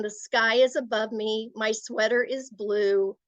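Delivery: matter-of-fact statement, no doubt at all. Shown as a demonstration. Teacher demonstrates an assertive tone, matter-of-fact and knowing. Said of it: "is just matter of fact".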